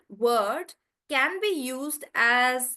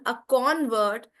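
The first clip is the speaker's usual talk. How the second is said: "convert" with the stress on CON; noun stress. Shown as a demonstration. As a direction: hit the first syllable of "convert", the noun. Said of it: "That's the syllable stress".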